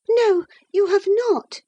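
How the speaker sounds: put-on a lovestruck girl digging in; infatuated girl. Isabella defying Catherine, high and stubborn. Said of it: "said the infatuated girl".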